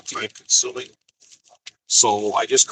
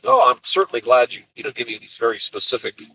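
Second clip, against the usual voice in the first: sarcastic. Retold or imitated. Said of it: "I'm like".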